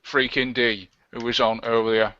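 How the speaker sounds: badly faked London film-star voice; deliberate actor impression, London accent; Michael Caine. Host thanking earlier guest, poor actor impression. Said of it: "your Michael Caine impression is bollocks".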